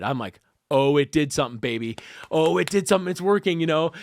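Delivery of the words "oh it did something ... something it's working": retold excitement, rising as it repeats; excited. Man reliving his cousin's treatment working, excited. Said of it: "I'm so excited".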